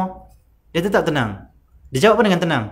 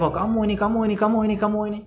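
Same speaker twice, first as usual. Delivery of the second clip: higher-pitched tearful scolding of the culprit; angry scolding; 8 semitones higher, faster than usual. Retold or imitated. Fatimah scolds the man who defiled her father, weeping. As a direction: scold him through tears. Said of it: "Sambil dia marah dia".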